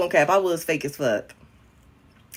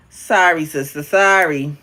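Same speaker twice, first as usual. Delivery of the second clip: mock apology; 3 semitones lower, 4 dB louder, slower than usual. Mock apology after refusing viewer.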